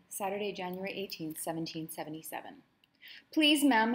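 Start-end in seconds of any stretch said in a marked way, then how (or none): 3.3-3.9 high, loud frightened pleading; mild acted panic; desperate plea. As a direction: beg her to stop, voice rising. Slave girl pleads with Madam.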